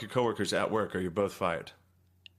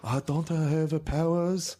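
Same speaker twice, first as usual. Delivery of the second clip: higher put-on broken English; mock boss accent; 7 semitones higher than usual. Imagined boss asking about his power, high mock accent. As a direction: whine it like the boss. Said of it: "boss showed me his dick and was like".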